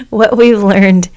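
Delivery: slow, rusty just-woke-up voice; morning voice. Real, not acted. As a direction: let the sleepy rasp through. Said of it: "I like this morning voice of yours".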